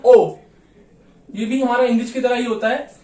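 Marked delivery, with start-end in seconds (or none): 0.0-0.4 ओ held long and loud; German long O. Shown as a demonstration. Teacher modelling a long German ओ. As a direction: stretch ओ out, stressed. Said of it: "लंबा pronounce करते हैं हम".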